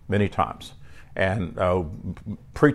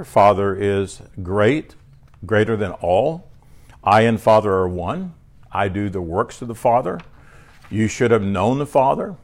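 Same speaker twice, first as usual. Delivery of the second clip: lightly raised, declaiming preacher read; reading scripture from the pulpit; 3 dB louder than usual. Acted. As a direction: proclaim each verse to the church. Preacher reads Jesus' sayings.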